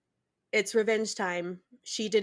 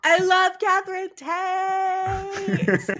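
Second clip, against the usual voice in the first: excited; 9 semitones higher, much slower than usual. Real, not acted. Gushing fan reaction.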